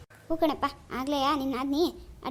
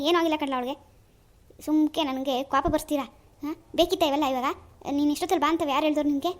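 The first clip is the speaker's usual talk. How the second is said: lingering annoyed scolding; still angry. Acted. Uncle keeps complaining to his nephew, in annoyed scolding. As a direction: keep grumbling, a bit less heated. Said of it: "ಈಗ ಯಾಕೆ ಸಿಟ್ಟು ಮಾಡ್ಕತ್ತೀರಿ".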